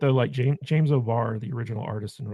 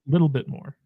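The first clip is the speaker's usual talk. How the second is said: little bit more, stressed; 3 semitones higher, 4 dB louder than usual. Shown as a demonstration. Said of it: "I said a l".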